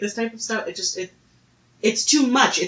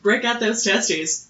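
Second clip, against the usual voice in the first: 1 quoting a comedian; much slower than usual. Retold or imitated. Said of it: "That was a Pete Holmes joke".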